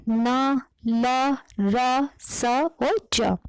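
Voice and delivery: न ल र स च spaced out slowly one by one; slow sound demo. Shown as a demonstration. Teacher listing gum sounds slowly for students. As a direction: say each letter slowly with the tongue on the gums. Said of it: "मसूड़े या जीभ की नोक की सहायता से".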